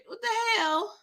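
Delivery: high, cracking cry of disbelief; shocked squeal. Real, not acted. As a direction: let the voice shoot up in shock. Shocked reaction to a scene.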